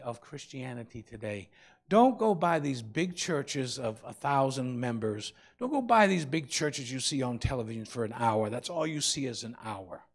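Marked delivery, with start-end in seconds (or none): 1.9-8.5 emphatic warning. Real, not acted. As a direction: lean on each word of the warning. Preacher warning congregation.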